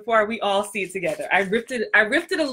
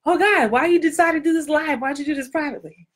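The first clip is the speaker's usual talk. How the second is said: mock panic; 7 semitones higher than usual. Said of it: "I'm just like".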